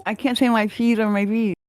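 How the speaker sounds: lips too stiff to close for P's; paralyzed lips. Real, not acted. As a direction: talk with numb, frozen lips. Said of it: "my lips are paralyzed".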